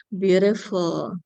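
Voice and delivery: overly cute. Retold or imitated. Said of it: "O A naman yun".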